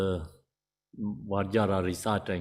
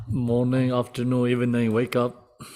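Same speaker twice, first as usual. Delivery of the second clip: louder, cheery greeting to rouse the room; playful wake-up call; 3 semitones higher, 6 dB louder than usual. Real, not acted. Teacher playfully calls the group awake, louder and cheery. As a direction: call out like you're waking sleepy students.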